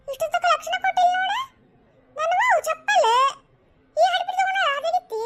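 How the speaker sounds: indignant discovery. Acted. Woman discovers her stolen sandals.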